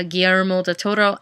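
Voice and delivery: Guillermo del Toro with a rolled R in Toro. Shown as a demonstration. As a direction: roll the R in Toro, Spanish style. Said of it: "tongue roll there with my country accent".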